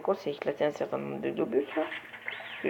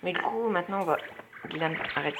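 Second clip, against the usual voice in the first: being tickled; 3 dB quieter than usual. Real, not acted. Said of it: "Arrête de me chatouiller les pieds".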